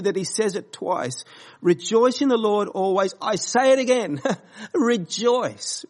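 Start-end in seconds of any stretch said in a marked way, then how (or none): 1.6-5.8 raised and louder, forceful proclamation; very strongly. Retold or imitated. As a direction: proclaim it like Paul, with full conviction. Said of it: "he says it very strongly".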